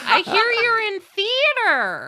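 stiff parent voice. Acted. Parent role, stilted.

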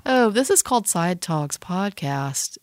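sleep-app voice. Pretend. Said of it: "A S M R".

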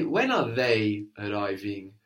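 "they" stretched out and emphasized; stress on they. Shown as a demonstration. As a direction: lean slowly on "they" in the question. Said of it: "Stressing the word for they".

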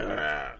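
short mock growl; imitated growl. Crackhead growling at the storyteller, imitated growl. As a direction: growl like a snarling dog. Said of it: "crackhead nigga growled at me".

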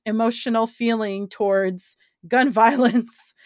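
slow words broken by a nervous laugh. Real, not acted. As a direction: laugh nervously mid-word, not joking. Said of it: "and I'm laughing nervously".

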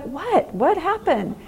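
retold high-pitched, astonished question; baffled surprise. Traveler asks his crying friend what went on, baffled. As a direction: ask it high in disbelief, imitating a bewildered man.

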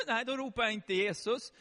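ordinary talk, nothing marked

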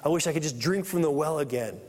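mildly frustrated sigh of wishing; frustrated longing. Acted. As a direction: lightly act out a wistful, fed-up groan. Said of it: "maybe hear him in his frustration".

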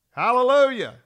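loud, high cry of relief; joyful shout. Retold or imitated. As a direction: shout it out, the pain is gone. Pain gone on day three.

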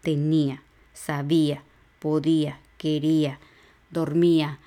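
tenía, sabía, podía, quería, dormía listed with each Í stressed; tenía, sabía, podía, quería, dormía as separate words, each weighted on Í. Shown as a demonstration. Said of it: "el tilde va en la I".

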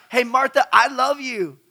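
getting pushy with the love line; insistent repeat. Retold or imitated. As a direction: press it on her a second time. Repeating it, wife not answering.

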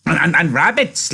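eagerly. Acted. Lenny eager about the rabbits, stammering. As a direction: blurt it out, bursting with excitement. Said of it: "Lenny said eagerly".

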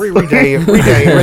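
grandma voice. Retold or imitated. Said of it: "that's the grandma voice".

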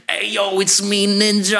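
high-pitched put-on entrance voice; Ninja in character. Ninja walking into the studio, high character voice. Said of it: "why are you talking like that".

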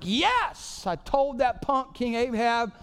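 hammed-up triumphant whoop, then bragging; celebrating Elijah; gloating. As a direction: crow over the king like a winner. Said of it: "And he's like".

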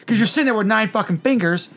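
mock outrage, pitched high; retold exasperation. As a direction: imitate someone demanding an explanation in disbelief. Retold angry confrontation over cut fingers.

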